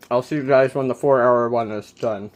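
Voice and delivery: chewing while talking; mouth full. Real, not acted. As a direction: talk through a mouthful. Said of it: "Sorry, I'm chewing and talking".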